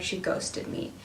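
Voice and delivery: breathless whisper, unvoiced; whispered thought. Whispering to herself that she was ghosted. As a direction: whisper it to yourself in dismay.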